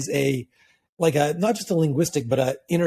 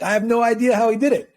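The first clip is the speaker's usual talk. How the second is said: higher-pitched amazed bafflement; imitating an astonished spectator; baffled onlooker; 7 semitones higher, 4 dB louder than usual. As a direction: marvel at it, mystified. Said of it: "you're like".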